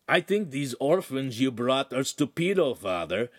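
rasping, scornful Italian retort; rough lout. Acted. Oaf sneering back at the neighbor in Italian, rough. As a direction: brush him off with contempt. Oaf speaks to Father Aaron.

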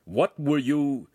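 drawn-out, wary master's question; suspicious. A narrator's reading. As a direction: begin to question with mild suspicion. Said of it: "scrunch up his face suspiciously".

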